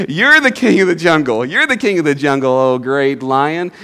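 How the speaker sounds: loud acclaim, slowing grandly at the end; lightly voiced tiger hailing a king; tiger paying homage. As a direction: proclaim it, then draw out the title. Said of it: "And then says".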